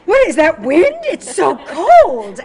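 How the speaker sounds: loud, hammed-up whining about the cold. Host imitating friends back in New York, mock suffering. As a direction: wail it high, drawing out the last words. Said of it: "shocked at how soft they are".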